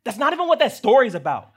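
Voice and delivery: exasperated dad cracking up; laughing protest. Real, not acted. Father answering son Lennox, laughing exasperated protest.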